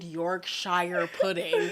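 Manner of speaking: "Yorkshire pudding" drawn out slowly, the American way; slow, laughing "Yorkshire pudding", saying it like an American; American pronunciation. Retold or imitated. Retelling her embarrassing mispronunciation, through laughter. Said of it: "but I said".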